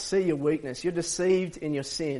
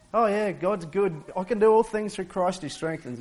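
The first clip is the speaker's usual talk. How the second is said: flippant; 5 semitones higher than usual. Retold or imitated. Preacher mocking a glib Christian, flippant and breezy. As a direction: toss it off like it costs nothing. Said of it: "it wasn't just a flippant".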